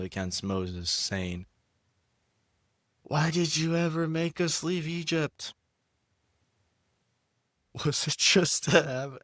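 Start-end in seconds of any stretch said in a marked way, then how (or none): 3.0-9.2 high, grumbling crowd of Israelites; put-on people's voice. Reading Exodus aloud, voicing the thirsty people in a high put-on voice. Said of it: "I thought I was done speaking this way".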